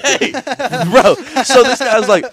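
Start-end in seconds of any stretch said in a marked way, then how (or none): 0.0-1.1 mock bro voice. Mock reply in bit.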